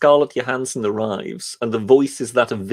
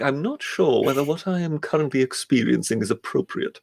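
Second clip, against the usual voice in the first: lightly voiced Vulcan, softer and reserved; a hint of a hesitant Vulcan aside; Vulcan officer; 6 dB quieter than usual. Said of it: "the Vulcan or whatever in the background".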